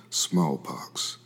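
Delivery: breathy whispered word, barely voiced; a sick man's faint whisper; weak whisper. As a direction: whisper it like you're too sick to speak. Sick, tired traveler near death.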